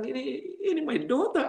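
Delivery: retold astonishment. Father finding his grown daughter on Facebook, retold astonishment. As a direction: relive the surprise of recognising your child. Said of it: "saudara, saya kaget".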